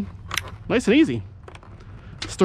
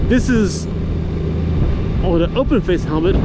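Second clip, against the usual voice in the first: helmet-cam mic while riding in wind; inside a helmet. Real, not acted. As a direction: talk into a GoPro mic inside an open-face helmet. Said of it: "looks and sounds in action".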